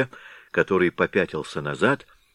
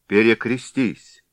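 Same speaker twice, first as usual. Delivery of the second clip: stern command; 4 semitones higher, 5 dB louder, slower than usual. A narrator's reading. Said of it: "сказал Голова".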